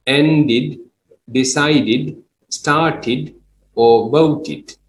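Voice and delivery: ended, decided, started said with a clear extra "id" syllable; voted ending in a plain "id"; id ending demo. Shown as a demonstration. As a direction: spell out the final "id" on each word. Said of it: "we read it as id".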